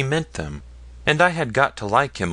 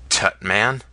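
mild testy. Acted. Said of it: "retorted Ratsey testily".

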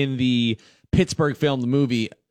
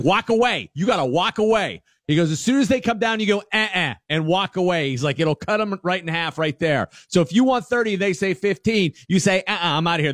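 dad's advice; 7 semitones higher than usual. Retold or imitated.

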